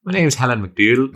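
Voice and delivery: put-on Irish accent. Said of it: "Do it!".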